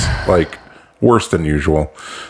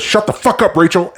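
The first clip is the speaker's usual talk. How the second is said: high mock shout at the crowd; comic singling out an audience member, mock yell; retold comedian yell; 11 semitones higher than usual. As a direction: bark it out high like a heckled comic. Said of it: "and says".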